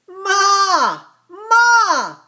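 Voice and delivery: high, loud little ibex bleating "Ma! Ma!"; excited cry. Acted. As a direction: call out to mother, bursting with excitement. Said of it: "cried Ilex Ibex excitedly".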